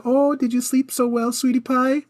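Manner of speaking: put-on high, sweet baby talk; cute voice. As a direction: coo it like to a toddler. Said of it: "something a little cute".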